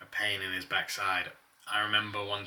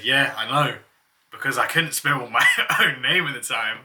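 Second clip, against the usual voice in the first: laughing while talking; 4 semitones higher, 10 dB louder than usual. Real, not acted.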